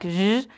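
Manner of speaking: "Z" said as a buzzing zh sound; pronunciation demo. Shown as a demonstration. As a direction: show "Z" as a voiced, drawn-out zh. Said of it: "that is pronounced like Z".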